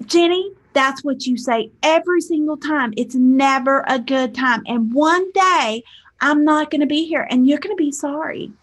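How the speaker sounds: guilt-tripping mom. Retold or imitated. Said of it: "that was her little guilt trip".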